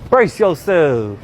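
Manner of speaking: very slow, stretched words; slow and drawn out. Shown as a demonstration. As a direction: draw out every word, slowly. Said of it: "Like that".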